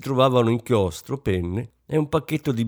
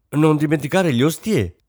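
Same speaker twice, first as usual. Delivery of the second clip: louder and higher, rushing in with it; eager outburst; 6 semitones higher, 5 dB louder than usual. A narrator's reading. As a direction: blurt the name out eagerly. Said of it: "disse Rosine con foga". (con foga, impaziente)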